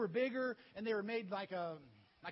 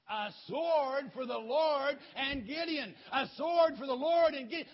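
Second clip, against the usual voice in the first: yelled battle cry; 6 semitones higher, 9 dB louder than usual. Acted. Three hundred men shout at the enemy camp, yelled war cry. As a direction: yell it repeatedly like an army charging. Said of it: "They kept yelling it".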